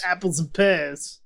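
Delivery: slow mock Cockney; amateur Cockney, slowly; put-on Cockney. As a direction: draw it out in a Cockney accent. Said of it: "That's my Cockney voice".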